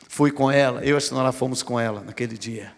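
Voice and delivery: usual speaking voice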